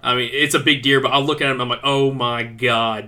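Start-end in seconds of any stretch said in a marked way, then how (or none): 1.8-3.1 slow, drawn-out amazement; retold awe. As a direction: stretch it out, awestruck at the sight. Reacting to huge buck in story.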